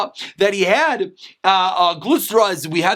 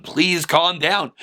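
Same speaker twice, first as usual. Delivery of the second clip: soothing plea; 5 semitones lower, much slower than usual. Acted. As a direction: ease him down gently and slowly. Rabbis soothing upset Rabbi Yochanan.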